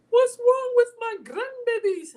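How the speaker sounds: high, loud doting grandma; doting grandma swooping in; Nana's voice. Retold or imitated. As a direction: coo it like a fussing grandmother. Nana greeting the kids.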